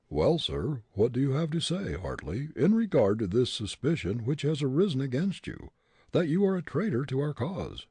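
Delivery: demanding captain's questioning; stern captain. A narrator's reading.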